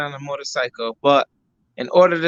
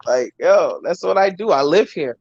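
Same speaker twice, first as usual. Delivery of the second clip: talking in an echoing gym; roomy gym echo on the voice; 2 semitones higher than usual. Real, not acted. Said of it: "I'm in the gym right now".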